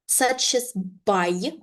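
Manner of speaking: slow model reading, stretching the vowel; slow repeat-after-me. Shown as a demonstration. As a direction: say it slowly for learners to copy. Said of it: "one more time slowly".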